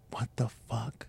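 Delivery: breathy whispered outburst, no voice; whispered thought. Retold or imitated. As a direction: whisper it like a bitter thought to yourself. Angry inner thought voiced aloud.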